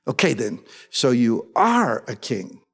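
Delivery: slow, mildly exasperated question; understated frustration, drawn out slowly; frustrated. Retold or imitated. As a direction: press for an answer with restrained frustration. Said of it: "Frustrated, Pilate, Pilate asks him".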